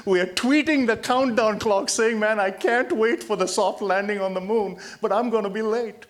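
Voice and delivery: chuckling through the words at the irony; half-laughing, amused disbelief. Real, not acted. Speaker mocking people who tweet the countdown, laughing.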